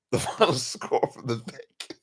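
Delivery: laughing. Real, not acted. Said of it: "I just cannot do this".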